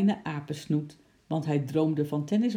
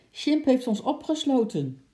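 higher, louder hoarse reply; 9 semitones higher, 5 dB louder than usual. Acted. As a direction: answer through a hoarse throat. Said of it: "die heese stem".

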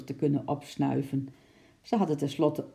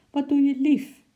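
high, doting coo at full voice; sweet and loving; 10 semitones higher, 8 dB louder than usual. A narrator's reading. Wife to the man she thinks strokes her neck, sweetly loving. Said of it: "zo zacht en lief klonk".

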